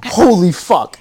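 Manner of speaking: stunned outburst at the actress's cameo; shocked exclamation. Retold or imitated. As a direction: blurt it out as the surprise hits. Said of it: "I was like".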